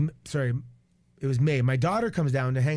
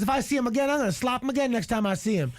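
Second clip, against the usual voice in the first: retold threat; 8 semitones higher than usual. Imitates rival's threat to slap.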